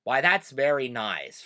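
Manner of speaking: slow Pennsylvania Dutch accent, V turned to W; thick Pennsylvania Dutch accent. Shown as a demonstration. Giving viewers an example, thick Pennsylvania Dutch accent. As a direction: put on an old-time Pennsylvania Dutch accent. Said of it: "someone with a really thick accent".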